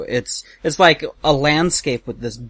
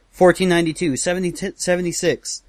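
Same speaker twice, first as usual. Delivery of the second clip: higher-pitched mock drilling of dates; hammering out facts; 6 semitones higher than usual. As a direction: imitate a teacher drilling dates. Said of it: "like, hammering out".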